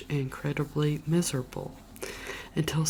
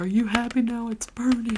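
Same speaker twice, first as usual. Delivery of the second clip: higher, louder sarcastic yell; husband tossing the story in the fire, shouting; mock angry shout; 8 semitones higher, 5 dB louder than usual. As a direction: hurl the question like a fed-up husband. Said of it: "and he's like".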